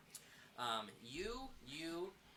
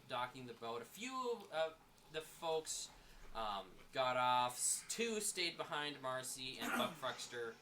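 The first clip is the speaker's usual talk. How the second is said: game master narration. A narrator's reading. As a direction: set the scene for the players. Game master recaps the voyage.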